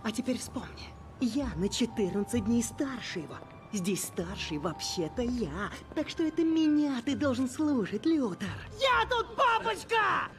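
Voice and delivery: unhinged villain. Acted. Unhinged threatening rant.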